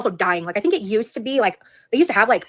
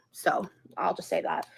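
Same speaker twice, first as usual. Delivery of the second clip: whispering; 3 semitones lower, 8 dB quieter, slower than usual. Real, not acted. Aside about YouTube guidelines.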